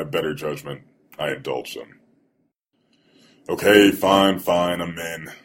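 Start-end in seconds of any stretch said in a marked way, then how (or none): 3.5-5.3 exasperated giving in. Acted. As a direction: give in to a pestering friend. Narrator gives in to pleading friend.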